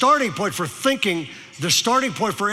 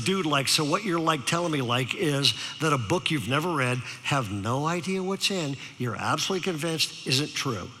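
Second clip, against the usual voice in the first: mock Valley-dude reasoning, softer; lightly borrow Valley lingo, voice lowered; Valley teenager; 3 semitones lower, 5 dB quieter than usual. Speaker reasons gently with teen, soft mock Valley talk. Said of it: "decided to use his language".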